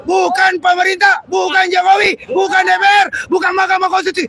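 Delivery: fiery revolutionary speech. Real, not acted. Fiery protest speech to workers.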